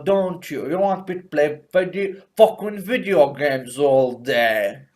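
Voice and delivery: badly faked British accent; Thatcher. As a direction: taunt in a hammed-up British accent.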